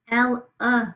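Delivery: elephant's syllables "el, uh" said apart; sounded out. Shown as a demonstration. Teacher helps pupils hear the schwa, sounded out. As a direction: separate el from the schwa uh, firmly. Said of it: "there's the schwa".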